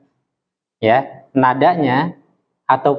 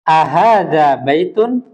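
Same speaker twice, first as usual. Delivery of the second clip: slow rising question on baitun; Arabic question intonation; question tune; 2 semitones higher, slower than usual. Shown as a demonstration. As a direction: ask it, voice rising at the end. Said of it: "sebuah pertanyaan A".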